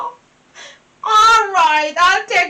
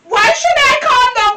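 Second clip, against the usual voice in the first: upset protest; 3 semitones higher than usual. Acted. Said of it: "you would calm down by now".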